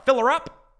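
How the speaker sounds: high, loud, hammed-up Russian accent as Putin the pump attendant. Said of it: "I gotta work on my Russian accent".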